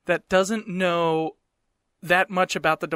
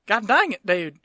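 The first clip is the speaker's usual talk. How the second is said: put-on exasperated cussing in a redneck accent; redneck Southern accent; 3 semitones higher, 4 dB louder than usual. Slips back into redneck voice.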